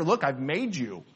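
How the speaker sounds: hushed, quick, reassuring voice of God; lightly voiced God, soft and close; God's gentle reassurance. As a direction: softly reassure the worried listener as God. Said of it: "he appeals to the greater".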